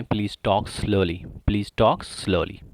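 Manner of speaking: very slow and deliberate; slow drill. Shown as a demonstration. Teacher modelling the phrase for students, very slowly. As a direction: stretch every word for learners. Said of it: "कृपया धीरे बात करें".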